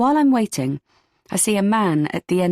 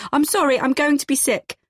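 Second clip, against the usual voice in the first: higher-pitched shout to the barman; calling out; 8 semitones higher than usual. A narrator's reading. Panicking woman excuses herself to the barman, calling out. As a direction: call it out in a panic. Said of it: "I shout to the barman".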